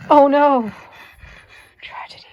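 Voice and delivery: loud, high oh no; mock dismay. Real, not acted. Reacting to the dog's dropped bone with high, loud dismay. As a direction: gasp out oh no in alarm.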